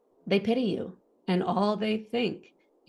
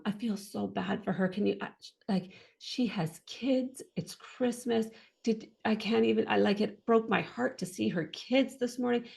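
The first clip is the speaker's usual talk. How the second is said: retold pity, higher-pitched, slightly hushed; 5 semitones higher than usual. Nurses over a brain-injured patient on Christmas, pitying. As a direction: mimic a nurse feeling sorry for the patient. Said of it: "they kind of pity me".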